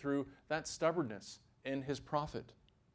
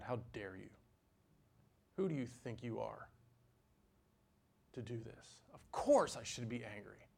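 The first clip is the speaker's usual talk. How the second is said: quiet defiant retort; 5 dB quieter than usual. Acted. Voicing Jonah's rebellious retort to God.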